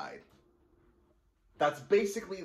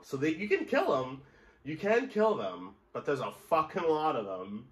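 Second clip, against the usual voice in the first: excited; 5 semitones higher, 4 dB louder than usual. Real, not acted. Stunned reaction to titan kill.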